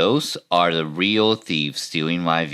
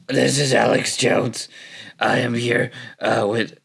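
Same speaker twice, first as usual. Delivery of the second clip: higher, in-your-face ranting host; Alex Jones; 5 semitones higher than usual. Pretend. YouTuber mocking a host's show opening, in-your-face impression. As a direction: push it out like a confrontational show host. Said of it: "the Alex Jones, I'm all up in your face".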